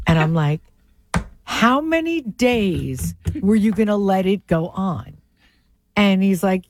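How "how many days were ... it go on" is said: slow, incredulous question; retold disbelief. Asking helper how long he let the wrong name go, incredulous. Retelling her disbelief at Alex.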